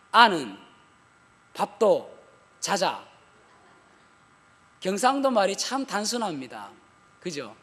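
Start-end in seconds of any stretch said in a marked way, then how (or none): 0.1-3.0 curt Gyeongsang husband's three words; clipped Gyeongsang grunts, mock husband; Gyeongsang dialect. Preacher mimicking a Gyeongsang husband home from work, terse Gyeongsang accent. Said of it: "세 마디만 한다고 그러지 않습니까".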